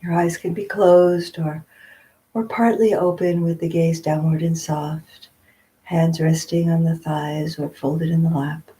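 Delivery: unhurried meditation guidance with long pauses; guided meditation. Real, not acted. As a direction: gently guide them into stillness, phrase by phrase.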